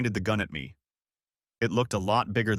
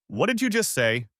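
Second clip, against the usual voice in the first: higher, louder angry demand; growled; 9 semitones higher, 3 dB louder than usual. Acted. James confronting Cyrus over his parents' accident, angry and raised. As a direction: snap the question at him in disbelief. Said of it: "I growled".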